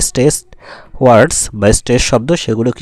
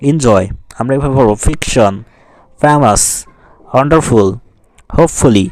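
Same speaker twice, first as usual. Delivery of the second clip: word-list drill with "ফেমাস", "ওয়ান্ডারফুল", "হোপফুলি" each punched on one syllable; stressed syllables. Shown as a demonstration. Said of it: "জোর দিয়ে পড়তে হবে". (জোর দিয়ে "ফেমাস", "ওয়ান্ডারফুল" পড়া)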